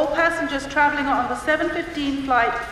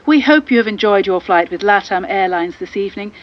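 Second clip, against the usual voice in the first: pilot announcement; 5 semitones lower, 5 dB louder than usual. Acted.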